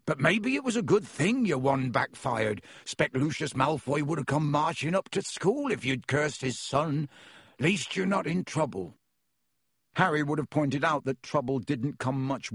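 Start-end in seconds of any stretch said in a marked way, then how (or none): 0.0-8.9 a friendly giant welcoming guests in; half-giant host greeting visitors at the door; Hagrid voice. Acted. Hagrid consoling.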